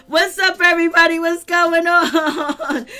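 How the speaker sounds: loud, high holler, drawn out at the end; hyped greeting. Retold or imitated. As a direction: holler hello to the whole room. Acts out a big entrance greeting.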